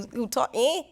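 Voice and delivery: lightly imitated Jamaican accent. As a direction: mimic his Jamaican accent. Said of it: "That's how he talks".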